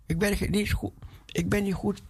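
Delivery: high, begging plea; pleading Moses. Retold or imitated. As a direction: beg to be let off the hook. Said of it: "Hij zegt".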